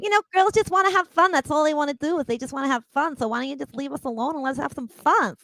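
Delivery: put-on New York accent; a singer. Singer pleading to be left alone for fun, New York accent impression. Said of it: "Can you do Cyndi Lauper".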